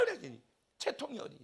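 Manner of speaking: usual speaking voice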